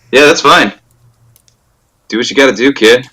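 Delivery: through gritted teeth. Real, not acted. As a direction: force it out through clenched teeth. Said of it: "says through gritted teeth".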